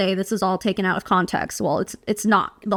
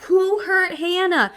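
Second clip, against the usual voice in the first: high, slow, puzzled mock concern; imitating the confused crowd; confused asking; 9 semitones higher, slower than usual. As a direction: ask it as if baffled and worried. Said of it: "Everyone's all confused".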